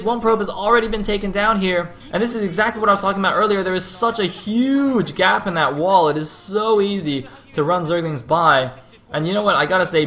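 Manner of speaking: high, loud voice gradually easing; animated play-by-play. Real, not acted. Caster explaining the gap in the wall, animated. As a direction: still fired up, hammering the point. Coming down from the run-by.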